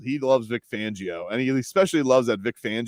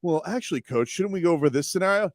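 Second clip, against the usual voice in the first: higher, whiny know-it-all voice; mock the eager question guy; high prissy teacher's pet; mock nerdy know-it-all; 5 semitones higher than usual. Mocking the input guy.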